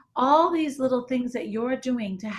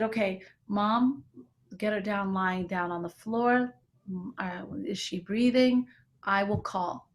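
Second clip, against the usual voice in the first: calm; 3 semitones lower, 3 dB quieter than usual. Retold or imitated. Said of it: "And I spoke just like that".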